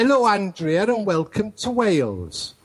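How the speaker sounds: put-on Welsh accent. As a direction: greet her in a mock Welsh lilt. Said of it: "the interview in a Welsh accent".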